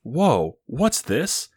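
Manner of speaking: very high, hammed-up disbelief; mock astonishment. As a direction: squeal the drawn-out question in fake shock. Feigns shock at second scene.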